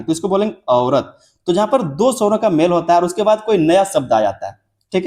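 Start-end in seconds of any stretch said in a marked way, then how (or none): 0.7-1.2 औरत with A sliding into O; combined vowel. Shown as a demonstration. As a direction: glide through the first vowel of औरत. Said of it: "आ से शुरू किया और फिर ओ".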